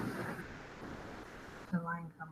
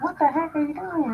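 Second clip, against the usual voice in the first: higher, mildly indignant lion voice; lightly voiced annoyed lion, pitched up; mad lion; 7 semitones higher than usual. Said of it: "He's mad".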